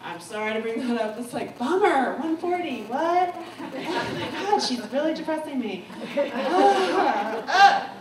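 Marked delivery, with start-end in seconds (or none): 3.4-7.9 real laughter breaking through the words; laughing. Real, not acted. Speaker to audience, laughing at the gloomy topic. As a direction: laugh it off, half exasperated.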